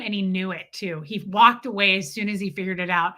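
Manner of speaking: ordinary talk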